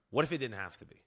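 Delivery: a touch of salesy ad-read promise; infomercial pitch. Shown as a demonstration. Self-mocking coach hearing his line as an infomercial, salesy. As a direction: pitch it like a late-night infomercial. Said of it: "Sounded like an infomercial".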